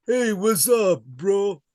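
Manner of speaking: high-pitched, exaggerated bro talk; playful slang greeting. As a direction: ham up a casual greeting in a high voice.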